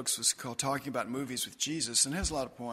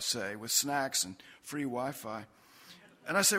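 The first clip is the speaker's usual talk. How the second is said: animated, conversational poem recital; wry storytelling poem performance; poetry reading; 4 semitones higher than usual. Acted. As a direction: read a comic narrative poem to an audience. Reads own poem to an audience.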